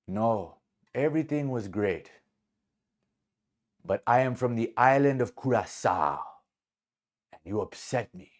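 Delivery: measured, lightly imitated Curaçao accent; reply with a careful attempt at a Curaçao accent; dignified Curaçao accent, with deliberate pauses; Curaçao man's accent. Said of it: "to honor this man's accent".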